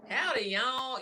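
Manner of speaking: playful Texan greeting; a hint of Texas twang; lightly done Texan "Howdy, y'all"; Texan drawl. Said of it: "And I'm like".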